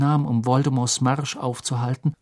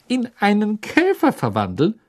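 suppressed triumph; 8 semitones higher than usual. Acted. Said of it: "zitterte verhaltener Triumph".

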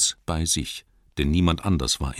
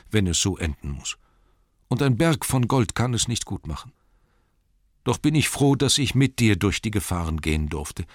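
sorrowful hobbit; 5 semitones higher than usual. Acted. Bilbo honouring his dying friend, sorrowful and increasingly fervent. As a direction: build from sadness to heartfelt thanks. Bilbo's sad farewell to Thorin.

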